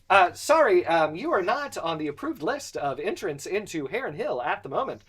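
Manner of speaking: polite, stiff robot guard voice. Acted. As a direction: recite it like a gate robot. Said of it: "I don't wanna talk to a robot".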